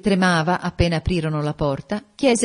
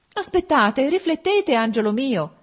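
very high, urgent motherly plea; alarmed exclamation; 10 semitones higher, 5 dB louder than usual. A narrator's reading. Mother tries to stop her daughter going, alarmed exclamation. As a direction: cry out to hold her back. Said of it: "esclamò la madre".

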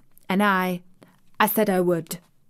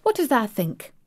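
cheerful grin; 5 semitones higher than usual. Acted. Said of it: "with a cheerful grin".

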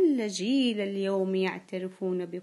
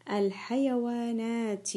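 slow dictation; slower than usual. Shown as a demonstration. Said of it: "سوف أنطق الكلمة".

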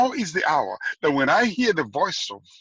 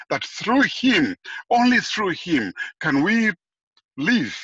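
slow building emphasis; 4 semitones higher, 4 dB louder, slower than usual. Acted. Preacher building to a climax.

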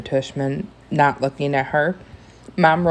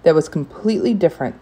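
raised, brisk brush-off; dismissive protest, a bit louder and quicker; 5 semitones higher, 5 dB louder than usual. A narrator's reading. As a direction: wave the objection away impatiently. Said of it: "Mister Tushman answered dismissively".

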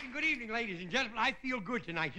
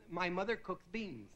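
put-on little girl voice; 2 semitones lower, 5 dB quieter than usual. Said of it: "Little girl says".

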